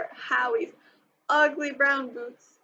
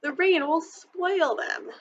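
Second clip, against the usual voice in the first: protesting; 6 semitones higher, slower than usual. A narrator's reading. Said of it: "protested Ramona".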